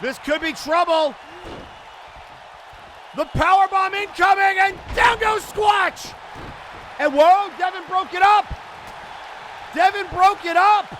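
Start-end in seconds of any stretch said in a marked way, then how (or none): 3.2-10.8 excited call. Real, not acted. Powerbomb broken up.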